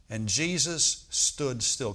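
very slow, each word weighed; slow reading. Shown as a demonstration. Preacher reading the verse very slowly. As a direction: let every word land. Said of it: "Can we say that together?".

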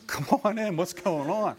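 mildly hammed-up surprised welcome; greeting a friend at the door, excited.

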